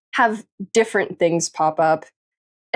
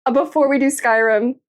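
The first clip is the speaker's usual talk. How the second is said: fast, higher excited chatter; excited rush; 6 semitones higher, faster than usual. Real, not acted. Streamer telling chat the plan, fast and excited. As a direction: rattle it off in giddy excitement.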